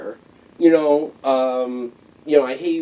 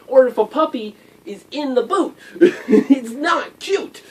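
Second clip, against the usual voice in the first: higher-pitched, amused protest through laughter; laughing; 11 semitones higher, 3 dB louder than usual. Real, not acted. Vlogger joking about puppies in boots, laughing. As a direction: laugh while insisting on the point. Laughs at own puppy joke.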